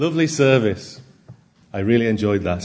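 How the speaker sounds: rough, attempted Irish accent. Preacher quoting a churchgoer who always praised the service, in an irish accent impression. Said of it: "So that's Irish".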